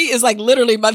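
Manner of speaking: ordinary talk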